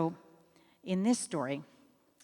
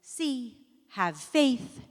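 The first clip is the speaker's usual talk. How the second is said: slow solemn lesson; 4 semitones higher than usual. Acted. Moral of the story delivered.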